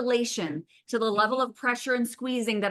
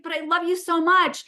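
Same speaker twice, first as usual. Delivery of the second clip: high, pleading lovesick groom; hammed-up adoring groom chasing her; 8 semitones higher than usual. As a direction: beg it up high like a clingy groom. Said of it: "And he's just like".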